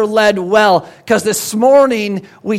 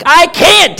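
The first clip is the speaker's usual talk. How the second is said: high, loud angry snap; snapping duck; 7 semitones higher, 6 dB louder than usual. Acted. Angry duck snaps at the sheep, high and loud. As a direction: snap it back like a cross duck. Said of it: "he snaps".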